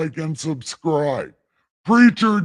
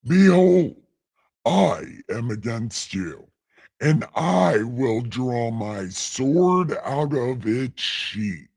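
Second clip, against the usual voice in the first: dramatic scripture reading; 3 semitones lower, slower than usual. Acted.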